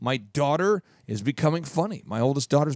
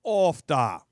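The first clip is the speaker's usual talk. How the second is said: drawn-out Minnesotan exclamation; Minnesota accent; much slower than usual. Retold or imitated. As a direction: imitate a Minnesotan, long open vowels. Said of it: "another thing people say".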